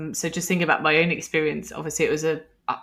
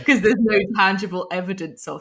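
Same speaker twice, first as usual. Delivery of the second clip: laughing; 2 semitones higher, 4 dB louder than usual. Real, not acted. Laugh heard on line.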